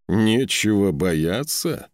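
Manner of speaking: roar. A narrator's reading. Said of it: "взревел Скаль".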